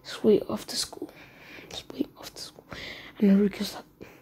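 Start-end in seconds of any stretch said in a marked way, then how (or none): 0.0-1.1 understated, expressionless warning; emotionless threat. Retold or imitated. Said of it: "with no emotion on his face and says". 1.7-2.6 emotionless threat, nearly whispered; very soft, expressionless repeat. Retold or imitated. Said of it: "with no emotion on his face and says".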